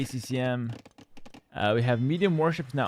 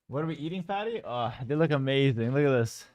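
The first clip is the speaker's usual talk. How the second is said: out of breath; 3 dB quieter than usual. Real, not acted. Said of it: "I'll be out of breath for about five minutes".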